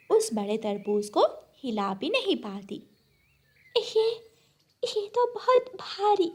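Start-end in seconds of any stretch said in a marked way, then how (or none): 3.8-6.3 much higher strained little bird voice; tiny bird struggling; small bird straining. Acted. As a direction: squeak it out while lifting.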